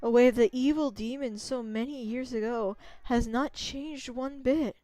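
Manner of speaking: a gentle ancient spirit pleading; Sakuya voice. Acted. Tree spirit begging the wolf goddess for help, softly.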